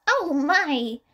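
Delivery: high, tender grandmotherly concern; gentle. A narrator's reading. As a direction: coo over the sick child. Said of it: "Chiyo asked so much more gently".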